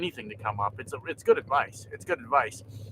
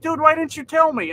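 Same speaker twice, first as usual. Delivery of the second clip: high, louder excited surprise; surprised coworker; 11 semitones higher, 6 dB louder than usual. Retold or imitated. Coworker who just recognized him, high and louder excited surprise.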